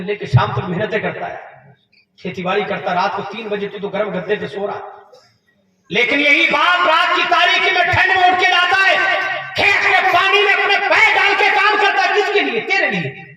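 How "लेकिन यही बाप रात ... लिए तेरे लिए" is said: preaching that builds higher and louder; a preacher's rising, fervent appeal; impassioned preaching. Acted. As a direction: swell the voice as you praise the father. Preacher rising to full force.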